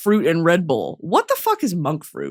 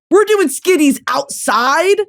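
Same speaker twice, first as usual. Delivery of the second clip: incredulous question; 8 semitones higher, 3 dB louder than usual. Real, not acted.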